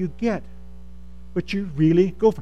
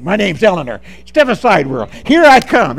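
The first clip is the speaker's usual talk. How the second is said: bold declaration; 6 dB louder than usual. Shown as a demonstration. Preacher showing friends how to declare themselves, bold. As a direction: announce yourself with growing force. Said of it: "you need to say the same thing".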